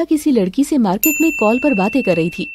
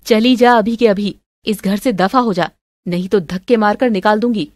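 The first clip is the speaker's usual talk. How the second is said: moderately angry order to get out; lightly acted scolding with a forceful start; angry mother-in-law; 3 dB louder than usual. Mother-in-law throwing her out of the house, angry.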